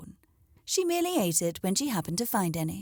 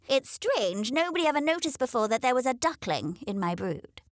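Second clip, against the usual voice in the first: muttered; 4 semitones higher than usual. A narrator's reading. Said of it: "Henrietta muttered at last".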